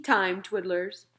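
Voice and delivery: whispered and slow. Acted. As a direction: breathe the words out. Whispered end of giant's line.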